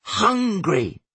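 put-on high-pitched bellowing child; Sonny. A narrator's reading. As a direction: whine it out high like a hungry child. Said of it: "Sonny bellowed at her".

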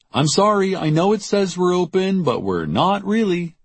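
put-on high-pitched young woman brushing off a customer; apologetic shopkeeper Jackie. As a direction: turn them away in a high, insistent voice. Jackie turns the customer away.

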